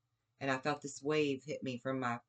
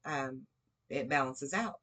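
ordinary delivery

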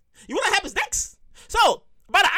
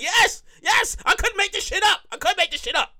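emphatic agreement; 5 semitones higher than usual. Pretend. Acted reply to imagined therapist.

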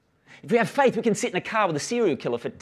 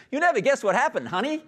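retold quote; 9 semitones higher than usual. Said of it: "She turns up laughing because".

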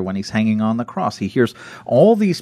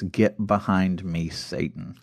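hushed rebuke; 3 semitones lower, 6 dB quieter, slower than usual. Retold or imitated. Jesus rebuking Peter, retold.

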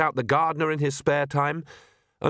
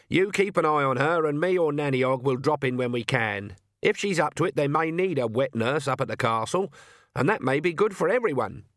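put-on brisk old witch, higher pitched; Granny's voice; 3 semitones higher than usual. Granny instructing the midwife, brisk and practical. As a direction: speak as a no-nonsense old witch.

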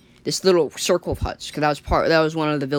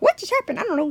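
confused; 14 semitones higher, faster than usual. Acted. Tree confused after the fright.

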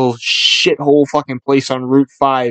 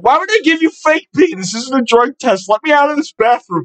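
high-pitched, alarmed retelling; mock panic, voice pitched way up; panicked protest; 11 semitones higher than usual. Driver trapped with clinic lady in bathroom, panicking.

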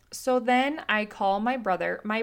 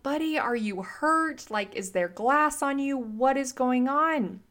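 worried mom; 5 semitones higher, slower than usual. Retold or imitated. Mom checking on crying toddler.

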